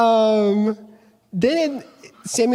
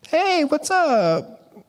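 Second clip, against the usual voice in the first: casual greeting; 9 semitones higher, much slower than usual. Retold or imitated. Jesse greets Samuel, voiced.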